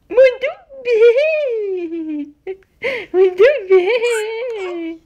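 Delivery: high, very slow sing-song cheering; drawn-out praise. Real, not acted. Mother cheering her baby's kiss, slow and sing-song.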